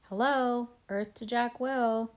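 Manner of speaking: sing-song jab to get his attention; mocking. Julian mocking Jack.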